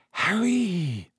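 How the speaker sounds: high, hushed-style call, still voiced; frightened whisper. A narrator's reading. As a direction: draw the name out high and fearful. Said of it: "she whispered".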